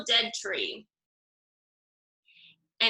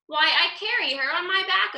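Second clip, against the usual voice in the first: surprised; 7 semitones higher than usual. Acted. Crocodile surprised answer.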